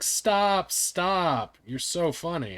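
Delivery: mock British listeners. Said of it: "they're like".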